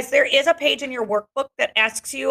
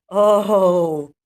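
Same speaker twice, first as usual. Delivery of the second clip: relieved sigh; 2 semitones lower, 5 dB louder than usual. Acted. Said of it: "the sound comes out of my mouth".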